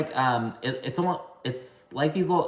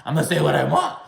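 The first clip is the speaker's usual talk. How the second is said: mock defiance; 3 semitones higher, faster than usual. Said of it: "like that whole bullshit".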